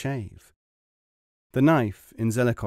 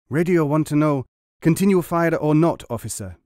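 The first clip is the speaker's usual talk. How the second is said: higher, louder soldier in broken English; 5 semitones higher, 6 dB louder than usual. Acted. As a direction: bark the report up high like a keen private. Zelikov reports in broken speech.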